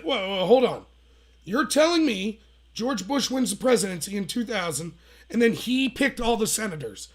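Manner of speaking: retold incredulity. Debater challenges girl about senators, retold incredulity. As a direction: halt them and spell out the absurd claim.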